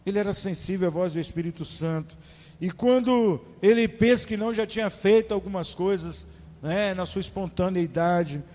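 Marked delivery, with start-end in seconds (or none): 2.6-8.4 higher and louder, slowing down; rousing pulpit appeal; fired-up preaching. Real, not acted. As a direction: press the congregation to be honest. Preacher builds to challenge.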